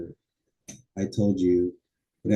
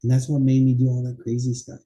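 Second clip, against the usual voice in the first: acted chat; 3 semitones higher than usual. Shown as a demonstration. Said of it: "Cause and effect".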